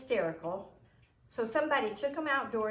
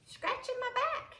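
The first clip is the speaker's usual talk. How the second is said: Imogene. Acted. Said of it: "Imogene said".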